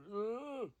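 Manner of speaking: loud, high creature groan; sudden loud wordless moan; monster groan. Retold or imitated. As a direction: imitate a muffled monster's moan. Imitates the unseen monster.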